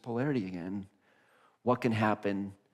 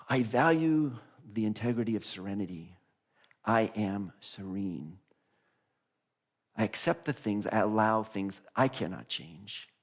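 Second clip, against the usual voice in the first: Unity-style prayer. Shown as a demonstration. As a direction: recite it calmly as affirmations. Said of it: "say this prayer, like, in a Unity way".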